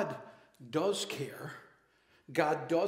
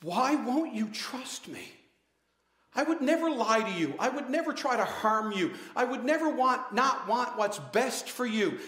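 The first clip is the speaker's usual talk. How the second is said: put-on a parent begging a child to trust them; pleading parent; 4 semitones higher than usual. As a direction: plead with your child, hurt but patient. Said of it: "you have pleaded with your children".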